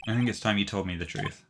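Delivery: lightly voiced cocky young star; laid-back celebrity. Voicing laid-back client "dude.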